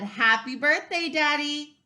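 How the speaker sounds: loud, high cheerful birthday wish; joyful greeting. Acted. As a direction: greet Daddy with delight. Mom greets dad loudly.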